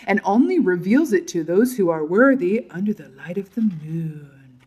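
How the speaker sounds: playful, swooping storyteller lilt; mystical incantation. Pretend. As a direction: intone it like a secret legend, sinking on "moon". Mock-mystical telling of card.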